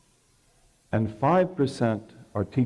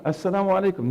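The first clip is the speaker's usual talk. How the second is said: called out higher, a last insistent salaam; third greeting; 8 semitones higher, much faster than usual. Retold or imitated. Prophet greets the silent household a third time, calling higher. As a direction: raise it once more, pressing for an answer.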